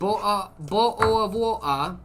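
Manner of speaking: exaggerated slow British accent; mock British accent. Shown as a demonstration. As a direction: draw it out like a hammy Brit. Repeats British accent demo.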